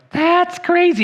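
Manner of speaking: shrill high shout of "That's crazy". Retold or imitated. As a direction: yell it way up high. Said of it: "And she'd go".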